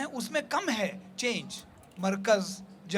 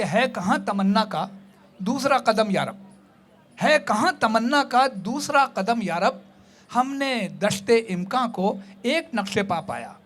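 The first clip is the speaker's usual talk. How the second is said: measured Urdu couplet recitation; verse recitation; 3 dB louder than usual. Acted. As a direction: recite the couplet with weight, phrase by phrase.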